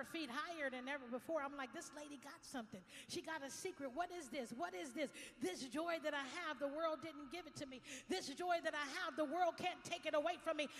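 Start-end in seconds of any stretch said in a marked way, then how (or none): 1.7-5.1 builds to a loud, high, ringing proclamation; rising joyful praise. Retold or imitated. Pastor voicing Marion's jubilant praise, building loud. 5.4-7.8 loud praise. Retold or imitated. Sung-like praise. 8.1-10.7 second line pushed higher and louder; louder praise. Retold or imitated. Pastor echoing Marion's praise, louder the second time.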